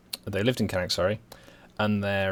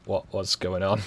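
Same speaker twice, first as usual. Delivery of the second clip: put-on Brummie accent. Streamer recalling uni chats with his mate, hammed-up Brummie. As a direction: act baffled in broad Brummie, pitch swooping up. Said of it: "conversations in some variation of Brummie".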